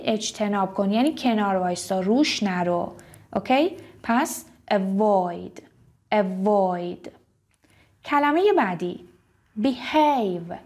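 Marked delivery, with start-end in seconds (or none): 4.7-7.1 avoid with void stressed. Shown as a demonstration. Teacher recapping avoid stress. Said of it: "استرس روی وی هست".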